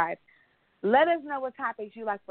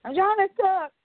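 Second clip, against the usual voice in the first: exasperated repeat; 9 semitones higher, 5 dB louder than usual. Retold or imitated. Repeating herself louder, exasperated.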